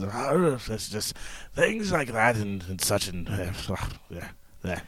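put-on low, muttering gruff English old-timer; gruff old English codger, low and halting; gruff old Englishman. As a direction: grumble quietly like an old English man, trailing into near-whisper. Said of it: "I do the old, the old ... the gruff".

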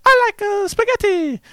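very high cartoon Italian accent; Mario accent. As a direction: squeak it out as a Mario-style Italian. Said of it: "I tried to do a Mario accent".

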